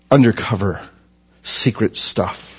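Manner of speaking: whispered, slowing down like sharing a secret; mock secret whisper. Pastor teasing the congregation about covert operations, in a mock secret whisper. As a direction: hush it as if spies might hear.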